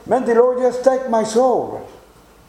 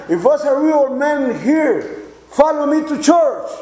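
retold scream; 4 semitones higher than usual. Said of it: "I scream to them".

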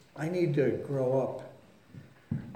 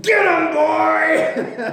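high, loud yell to a dog; full-voiced "sic him" shout; yelled urging; 12 semitones higher, 9 dB louder, much slower than usual. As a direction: yell out the window to egg the dog on. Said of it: "He yelled out of it".

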